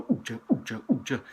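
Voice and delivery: babbling imitation of dance beats; mock techno chant. Shown as a demonstration. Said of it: "as I call it".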